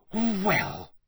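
high, thunderstruck false start; sputter, lost for a comeback. A narrator's reading. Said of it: "he sputtered".

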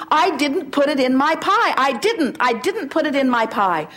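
a hint of a whiny denier; mock defensive friend. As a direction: play the friend swearing innocence. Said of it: "They will say to you".

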